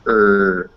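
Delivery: "er" as one fused r-colored sound; R-colored vowel. Shown as a demonstration. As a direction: sound out "er" alone, vowel and r blended. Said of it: "the R is coloring the vowel".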